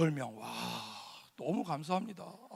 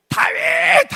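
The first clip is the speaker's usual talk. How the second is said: loud shouted answer; shouting answer; 4 semitones lower, 10 dB louder, much slower than usual. Retold or imitated. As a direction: answer with full force. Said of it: "하고 외쳤죠". (힘껏 외치는 대답)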